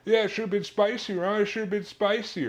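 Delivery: high, loud sing-song taunt; mocking teasing. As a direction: rub it in like a teasing friend. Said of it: "then we kept going".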